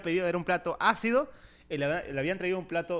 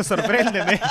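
mock excited plea; 5 semitones higher, 9 dB louder, much slower than usual. Mocking New Year promises.

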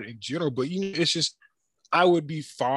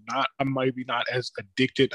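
slipped into a Southern country accent. Real, not acted. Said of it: "I sounded very country".

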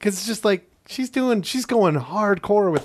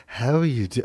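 lightly attempted first lady voice; Jackie impression; 4 semitones lower than usual. Host shows a failed Jackie, tentative impression. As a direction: try the first lady's voice, then give up. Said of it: "I tried doing Jackie".

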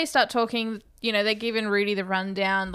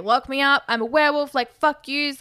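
mild mock yell, pitched up; half-hearted retold rant, a bit higher; mock screaming; 4 semitones higher, 4 dB louder than usual. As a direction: imitate a raving man without full volume. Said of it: "He's screaming".

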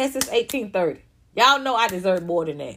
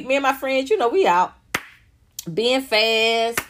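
normal talking voice

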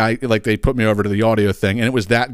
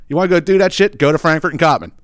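high, scornful "go do that shit"; mocking sendoff to suburban fans; scornful dare; 7 semitones higher, 3 dB louder than usual. Real, not acted. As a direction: brush them off with contempt.

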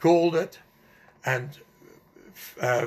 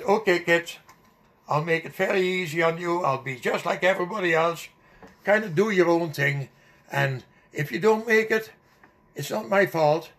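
mildly huffy mock teacher announcement; ticked-off teacher, retold; 3 semitones higher, 3 dB louder than usual. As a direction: imitate a fed-up teacher, slightly raised pitch. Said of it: "he was really ticked off".

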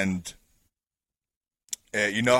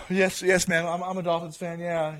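timid polite reply; 8 semitones higher than usual. Retold or imitated. Replying to drunk neighbour.

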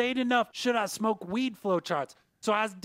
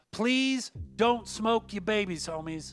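public service announcement; 3 semitones higher, slower than usual. Acted. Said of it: "quick public service announcement".

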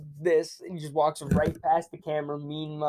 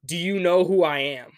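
louder imitated challenge; mock self-important challenge; 5 dB louder than usual. Athletic director to player's dad, louder mock challenge. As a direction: challenge him as if you outrank him, louder. Retelling AD confronting his dad.

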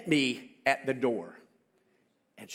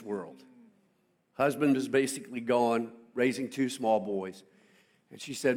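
earnest mother; 5 semitones lower than usual. Retold or imitated. Mother's solemn plea.

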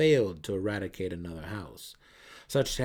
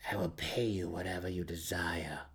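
desperate whispered promise; 2 semitones lower, 4 dB quieter than usual. Acted. Malice bargaining with the mercenary in a desperate whisper. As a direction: promise anything, breathlessly. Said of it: "the desperate matron mother promised".

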